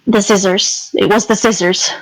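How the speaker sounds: low, resigned admission; weary, reluctant confession; reluctant, sighing. Acted. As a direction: admit it unwillingly, pitch sunk. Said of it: "he's, like, sighs".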